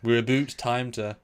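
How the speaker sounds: Canadian "oot" for out; playful stab at Canadian vowels; mock Canadian accent. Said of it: "I guess Canadian".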